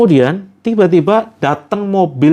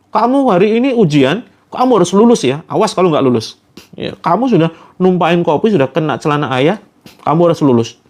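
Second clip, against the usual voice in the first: threatening father. Retold or imitated. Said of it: "sampai diancam".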